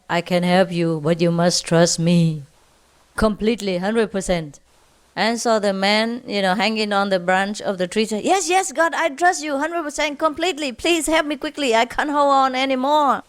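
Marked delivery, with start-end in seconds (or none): 0.1-4.6 lower, calm divine voice; voice from the sky. Acted. God answers the hanging man, lower solemn divine voice. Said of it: "a voice from the sky". 8.2-13.2 higher, frantic eager promise; desperate pleading. Acted. Hanging man promises God full trust, high frantic pleading.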